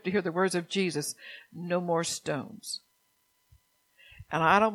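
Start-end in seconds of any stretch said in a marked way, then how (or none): 1.5-2.8 No more stones said slowly and softly, each word weighted; slow solemn declaration. Real, not acted. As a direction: lay down No more stones one word at a time. Preacher declaring a solemn decree.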